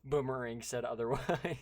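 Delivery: loud, high exasperated rant. Real, not acted. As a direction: rant loudly in disbelief.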